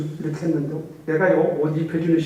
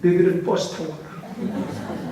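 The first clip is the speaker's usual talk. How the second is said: slow mock order; slower than usual. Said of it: "나는 택시 타고 갈 테니까".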